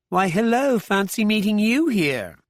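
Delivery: light, high British lilt, breezy; a cheerful soft British greeting; soft British accent. A narrator's reading. Tracy greeting Arkadin in the cafe, soft British accent. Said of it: "in her soft British accent".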